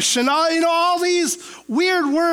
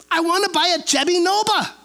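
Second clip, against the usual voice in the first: put-on light Mexican accent; faster than usual. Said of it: "he had a pretty distinct accent".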